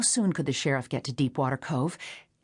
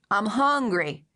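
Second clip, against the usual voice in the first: put-on high, plaintive man-child voice, pitched well up; a simple, wheedling stranger begging for cake; childlike hungry stranger; 6 semitones higher, 3 dB louder, slower than usual. A narrator's reading. Man outside at window.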